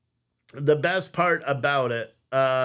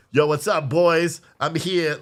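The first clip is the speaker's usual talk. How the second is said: a light, louder imitation of a kid's headset hello; mimicking gamer greeting; 3 semitones higher, 4 dB louder, slower than usual. Son greeting his friends on his gaming headset, lightly imitated. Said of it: "he always goes like this".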